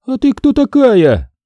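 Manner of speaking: high, slow suspicious challenge; suspicious trader. Acted. Trader suspiciously challenges Jamila. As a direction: eye her with suspicion.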